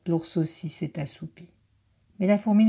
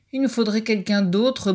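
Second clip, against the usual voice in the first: higher, louder grumbling complaint; grumbling badger; 4 semitones higher, 5 dB louder than usual. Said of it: "bougonne le blaireau".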